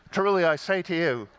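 mock movie-Jesus British accent. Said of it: "Jesus always speaks with a British accent".

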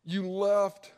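stern rebuke. Retold or imitated. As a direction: confront them, ring out the accusation. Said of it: "He goes".

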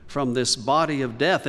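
crying out. Retold or imitated. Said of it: "he cried out".

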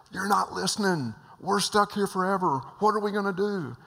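high, loud frantic outburst; desperate shout. Retold or imitated. Passenger grabbing pilot's collar, high frantic shout. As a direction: shake him by the collar with your voice.

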